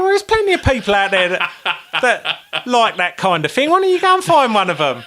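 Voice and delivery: words through real laughter; can't stop laughing as you tell it; giggling through the reply; laughing while talking. Real, not acted. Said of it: "laughing through retold reply".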